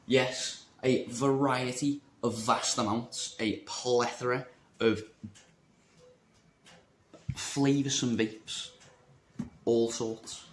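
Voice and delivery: slow, drawn-out posh connoisseur tone; lightly hammed-up connoisseur voice; mock connoisseur. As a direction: savour each word like a wine expert. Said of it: "I will use my connoisseuric words".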